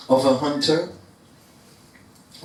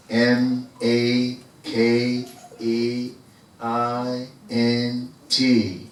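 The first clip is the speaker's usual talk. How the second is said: spelled out; 3 semitones lower, much slower than usual. Shown as a demonstration. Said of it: "spelling it out for me".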